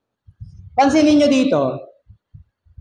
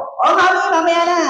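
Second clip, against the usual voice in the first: put-on child voice, higher, whining later; whiny child; 4 semitones higher than usual. Pastor mimics child dodging chores, whiny. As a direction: dodge the chore like a lazy kid.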